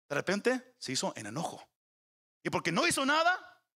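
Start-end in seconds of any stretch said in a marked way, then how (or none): 2.4-3.6 peak of emphasis. Real, not acted. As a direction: hit the top of the build. Predicador culmina la escalada. (clímax del predicador, voz muy alta)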